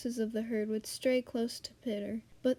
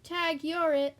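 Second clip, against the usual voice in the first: high, loud playful call; playful shout; 6 semitones higher, 6 dB louder, slower than usual. Acted. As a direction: shout it out in play. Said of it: "and shouted".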